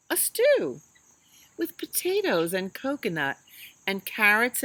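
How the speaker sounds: lilting storybook read-aloud; reading to children. Acted. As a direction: read it like bedtime story time for little kids.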